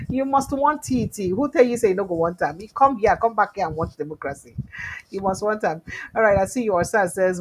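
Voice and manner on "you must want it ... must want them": teasing insistence. Real, not acted. Host teasing viewer about democracy.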